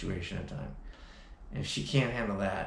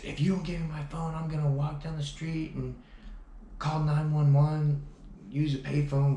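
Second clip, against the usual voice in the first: mock threat, higher and louder; retold threat; 7 semitones higher, 4 dB louder than usual. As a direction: imitate her shrill threat to call the cops. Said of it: "And she said".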